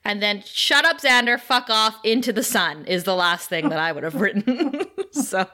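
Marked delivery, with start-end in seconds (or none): 0.5-2.9 exasperated mock outburst. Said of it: "it gets progressively worse".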